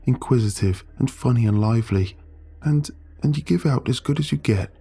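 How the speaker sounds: desperate friend begging her to see; Sam pleading. Acted.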